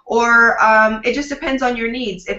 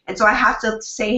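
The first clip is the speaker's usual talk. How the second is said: normal talking voice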